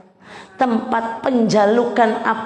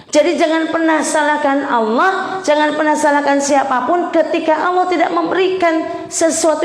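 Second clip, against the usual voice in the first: emphatic preaching; 5 semitones higher than usual. Real, not acted. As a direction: press the point home to the mothers. (ceramah yang tegas dan lantang)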